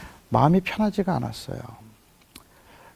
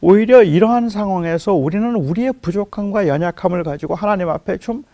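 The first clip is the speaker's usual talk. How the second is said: preaching; 3 dB louder than usual. Acted. 교회 회중에게 아픔을 하나님께 털어놓으라고 호소하는 설교. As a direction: plead with the congregation to bring their pain to God.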